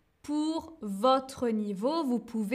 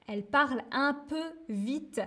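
a bit fast; faster than usual. Shown as a demonstration. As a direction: rattle it off like she does. (dit un peu vite, à la manière de Virginie)

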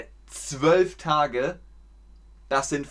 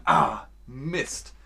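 annoyed exclamation. Shown as a demonstration. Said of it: "dann sagt man".

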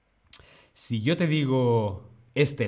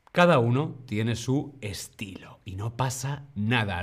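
whispered, gentle comfort. Real, not acted. Teacher comforting Jenny who can't roll R, whispering. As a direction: hush it kindly to a struggling student. Reassuring Jenny about her R.

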